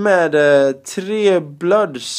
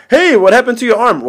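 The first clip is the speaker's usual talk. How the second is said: lightly voiced gang member; 10 semitones higher, 7 dB louder than usual. Retelling bus conversation.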